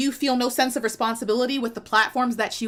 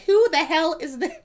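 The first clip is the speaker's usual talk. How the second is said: higher-pitched mock outrage; indignant partner; 5 semitones higher than usual. Partner spotting a rival on the livestream, mock indignant. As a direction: act out an affronted partner.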